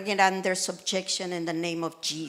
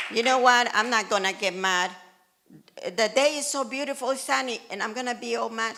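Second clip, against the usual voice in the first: cheerful self-talk; 2 semitones higher, 4 dB louder, faster than usual. Retold or imitated. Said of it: "I'm like".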